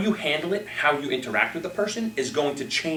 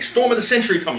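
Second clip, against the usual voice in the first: higher, louder headline cry; dramatic headline; 9 semitones higher, 7 dB louder than usual. Retold or imitated. Newspaper headline read out in mock alarm. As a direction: sell the scary headline.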